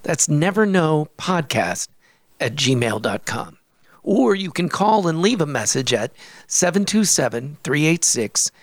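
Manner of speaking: measured announcer read, phrases falling at the ends; podcast outro read. Real, not acted. Telling listeners how to reach the podcast, outro read. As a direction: read out the contact details clearly. Recorded contact read at show's end.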